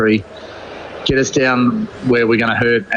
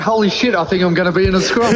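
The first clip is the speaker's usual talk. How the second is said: mock alarm, high; 6 semitones higher, faster than usual. Retold alarm at scrum challenge.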